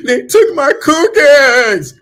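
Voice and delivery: put-on high, loud, slow whiny baby voice; hammed-up toddler wail; mock crybaby whine. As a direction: draw it out like a sulking child. Mocking crybaby quote.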